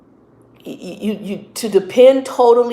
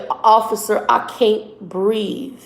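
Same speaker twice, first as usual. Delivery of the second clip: gently pleading, slow; kind, gentle plea; 3 semitones higher, much slower than usual. Retold or imitated. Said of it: "telling you in a kind way".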